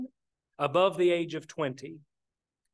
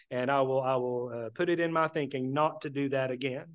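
contrite husband owning his mistake; sincere apology; 4 semitones lower than usual. Shown as a demonstration. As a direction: admit the fault plainly and earnestly, with no excuses. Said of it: "admit it quickly and emphatically".

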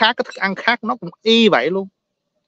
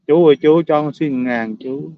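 slow, drawn-out begging that fades at the end; mock beggar plea; slower than usual. Beggar tugging at an older man, slow pleading whine. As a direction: whine out the ask, slow and trailing off.

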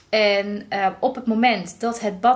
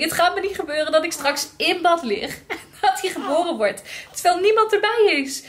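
panicky thought; 7 semitones higher than usual. Retold or imitated.

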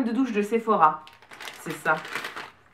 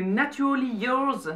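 French-accented English; 3 semitones higher, slower than usual. Real, not acted. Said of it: "avec mon bel accent".

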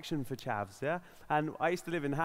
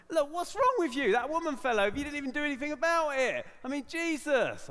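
angry telling-off; 10 semitones higher than usual. Retold or imitated. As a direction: tear into them, outraged. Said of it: "I was a bit angry".

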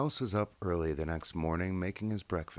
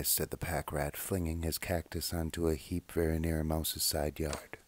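gentle read-aloud voice with lively character voices; children's story reading. A narrator's reading. Reading a childhood book aloud, storyteller voice. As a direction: read it like a bedtime picture book.

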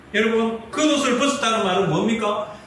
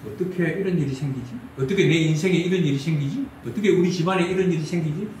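low, softer lament, repeated; acted despairing complaint; 4 semitones lower, 3 dB quieter, faster than usual. Believer questioning troubles in life and family, low lament. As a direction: grumble inwardly in mock despair.

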